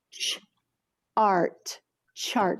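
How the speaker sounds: ch and art split, then "chart" said whole; segment then blend. Shown as a demonstration. Teacher modeling the digraph for the class, segmented then blended. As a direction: pull it apart and put it together. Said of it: "that digraph in the front".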